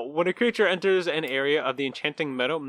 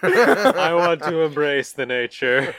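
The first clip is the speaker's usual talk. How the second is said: slow, laughing mock bliss; dreamy, laughing; slower than usual. Charmed player welcoming the thorns, slow laughing bliss. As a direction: drag it out in hammed-up rapture.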